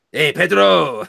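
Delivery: high, loud mock-Hispanic call; hammed-up fake Hispanic accent; bad Hispanic accent. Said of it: "I can't do a Hispanic accent".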